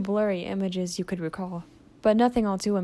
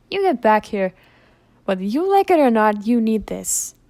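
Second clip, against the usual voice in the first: scolding call; 7 dB louder than usual. Acted. Moxie chasing patient with medicine.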